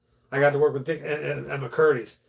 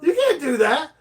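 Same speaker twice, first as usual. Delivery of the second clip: much higher and louder, insisting; emphatic; 13 semitones higher, 6 dB louder than usual. Real, not acted. To his friend about slurs, an emphatic higher insisting repeat. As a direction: push it hard, almost protesting.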